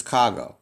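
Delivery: "kago" as one merged word, KAH-go; smooth elided form. Shown as a demonstration. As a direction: say "kago" with the middle vowels dropped. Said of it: "say this more smoothly".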